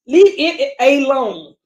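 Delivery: slow, drawn-out Southern accent on "Leave it alone"; Southern drawl. Real, not acted. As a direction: let the Southern dialect slip out, slowly. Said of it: "Oh, that Southern dialect coming out".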